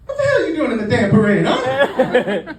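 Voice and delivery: fast, loud, high demand; mock angry officer. Officer confronting parade crashers, loud angry challenge. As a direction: confront them as an outraged cop.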